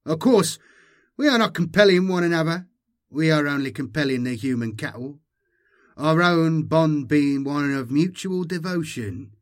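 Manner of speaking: lightly voiced Magus, assured and emphatic; cult Magus. Magus explaining brood bonds to the newcomer, lightly voiced and assured. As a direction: start high and loud, settling as it goes.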